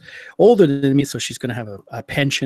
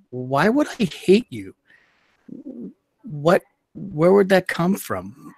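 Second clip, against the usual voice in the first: calm; 5 semitones higher, slower than usual. Retold or imitated. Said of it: "I was calm".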